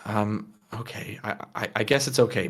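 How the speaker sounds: low, soft, hesitant giving-in; grudging, subdued acceptance; sighing reluctance. Acted. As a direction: relent with a sigh, voice dropped. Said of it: "she sighs and goes".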